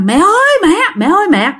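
high-pitched cry out for mom; retold frightened cry. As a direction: imitate a scared patient calling for mother. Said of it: "bạn la".

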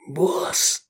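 tonloses Zischen; zischend. A narrator's reading. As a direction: heimlich von hinten zuflüstern. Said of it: "прошипел Эдик".

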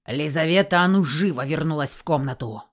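a hint of a thundering guardian; lightly voiced rumbling man. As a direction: guardian orders her back inside. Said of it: "Корнилов ... загрохотал".

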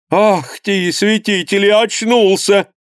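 high surprised cry of relief; joyful cry. A narrator's reading. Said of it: "вскричала Марица Михайловна". (мать радостно вскрикивает, что сын очнулся)

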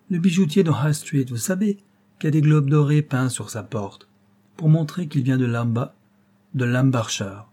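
put-on small child. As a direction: chatter innocently like a small boy. Little boy Georget voiced.

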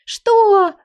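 mock gasp. The heroine teasing her husband, a mock-shocked high gasp. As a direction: fake being shocked. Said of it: "ахнула я в шутку".

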